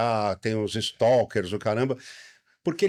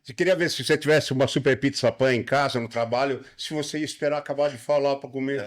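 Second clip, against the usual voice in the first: talking with mouth full. Real, not acted. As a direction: speak through a mouthful of pizza. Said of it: "se você acha que é feio comer de boca cheia".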